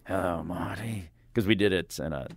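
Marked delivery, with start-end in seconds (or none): 0.1-1.1 lightly voiced drawn-out rocker greeting; a hint of an old rock star's voice; impression of a rock star. Host imitating the rock star greeting him on headphones, lightly voiced impression. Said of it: "you hear this voice that says".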